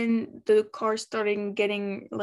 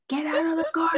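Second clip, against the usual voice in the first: higher urgent whisper, pleading; tense whisper; 7 semitones higher, much faster than usual. Retold or imitated. Fan watching the burning car, urgent whisper. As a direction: hiss it under your breath, willing him out. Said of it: "I was nearly screaming".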